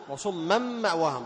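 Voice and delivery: وصما مأواهم with an a vowel before the doubled meem; accusative ending shown. Shown as a demonstration. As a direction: recite وصما ending in -an merged into m. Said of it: "بالنصب". (نطق وصما مأواهم بالنصب)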